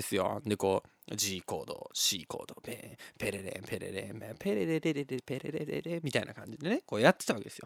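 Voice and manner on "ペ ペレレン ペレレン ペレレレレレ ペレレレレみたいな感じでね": hushed guitar imitation.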